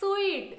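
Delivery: suite said like sweet; teacher demo, suite sounds sweet; correct suite. Shown as a demonstration. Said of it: "this is".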